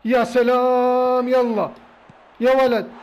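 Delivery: loud, very slow stretched-out cry; drawn-out cheer. Real, not acted. Gamer cheering as his team wins a penalty, drawn out. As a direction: savor the moment, loud.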